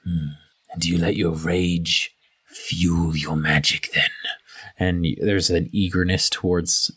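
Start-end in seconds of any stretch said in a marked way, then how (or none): 0.0-4.1 low, eager half-orc voice. Acted. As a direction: lean in hungrily as the half-orc.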